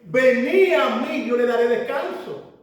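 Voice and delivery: ringing preacher's call; preached proclamation. Acted. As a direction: proclaim it with full force. Preacher proclaims Jesus' invitation.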